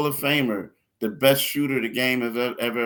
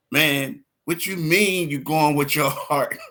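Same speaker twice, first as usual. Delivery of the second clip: higher, imitating an incredulous relative; mock indignant challenge; 4 semitones higher, 3 dB louder than usual. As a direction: call him out, playfully outraged. Acted caller challenging him about prediction.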